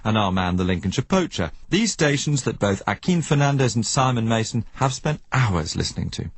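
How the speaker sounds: scripted presenter read, slowing on key names; documentary narration. A narrator's reading. Presenter asks who runs the mysterious stations, documentary narration. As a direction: pose the mystery to the listener.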